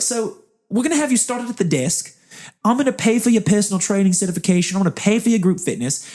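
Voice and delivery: high-pitched, emphatic bad New Zealand accent; Richard. Interviewer offering a job regardless, emphatic New Zealand accent. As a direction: make the offer in an amateur Kiwi accent. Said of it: "do a very bad New Zealand accent".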